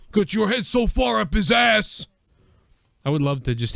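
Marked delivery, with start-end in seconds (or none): 0.1-2.1 imitated retort. Quoting wrestler's angry retort.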